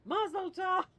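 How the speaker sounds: loud, high-pitched imitated cheer; mock celebratory shout. Mother-in-law as another glass is broken, mock cheer. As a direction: belt it out as a mock toast. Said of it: "She goes".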